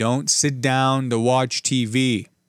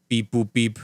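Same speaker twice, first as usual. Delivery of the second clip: droid beeps. Pretend. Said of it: "more droid talk".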